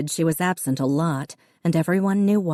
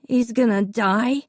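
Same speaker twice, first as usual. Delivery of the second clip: put-on higher, frightened little boy's question; a small boy who can't believe it; scared child; 6 semitones higher than usual. A narrator's reading. Davy asking Dad, high and frightened.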